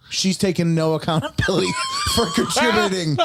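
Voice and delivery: fast, rising indignant rant. Retold or imitated. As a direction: vent about the older woman beside her. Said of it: "I'm like".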